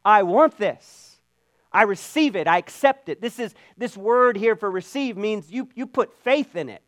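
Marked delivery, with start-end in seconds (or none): 0.0-3.2 firm declaration. Retold or imitated. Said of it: "you've got to be here and say".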